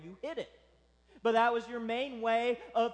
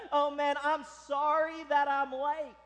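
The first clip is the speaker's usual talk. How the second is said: lightly acted, higher and louder apology; sheepish latecomer; 5 semitones higher, 4 dB louder than usual. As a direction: play a servant stumbling in late. Voices tardy servant's apology.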